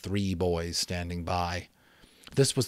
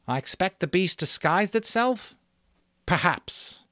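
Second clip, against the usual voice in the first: higher, louder wondering question; questioning boy; 11 semitones higher, 4 dB louder than usual. Acted. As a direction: ask it half in awe. Stanley asks, chief answers.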